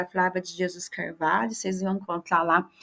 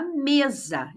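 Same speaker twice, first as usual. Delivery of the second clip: slow for the class; 4 semitones higher than usual. Shown as a demonstration. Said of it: "Então, mesa".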